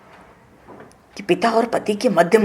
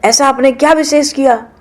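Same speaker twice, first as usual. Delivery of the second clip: indignant Sati; 5 semitones higher, 4 dB louder than usual. Acted. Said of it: "सती जी कहते".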